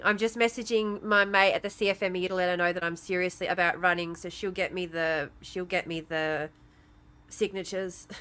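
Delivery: coming down from fury, muted; shaken and subdued. Real, not acted. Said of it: "I'm shaking".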